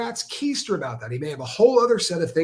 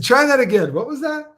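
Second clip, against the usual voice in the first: retold bafflement; 9 semitones higher, 7 dB louder than usual. Retold baffled reaction to the babble.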